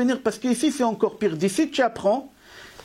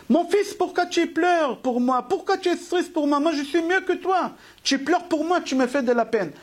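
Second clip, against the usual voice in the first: voicing the departed father; 4 semitones higher than usual. A departed father pleads with his grieving son, higher, lightly voiced. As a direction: gently ask from beyond why he cries, pitched up.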